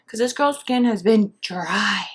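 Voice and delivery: hushed confiding whisper about her skin; whispered aside. Real, not acted. To her viewers, whispering about dry skin. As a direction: drop to a whisper, sharing a secret.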